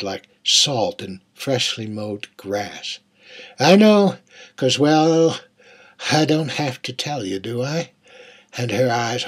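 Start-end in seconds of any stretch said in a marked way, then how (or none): 3.6-7.9 lightly voiced young girl. Narrator voices the girl's words.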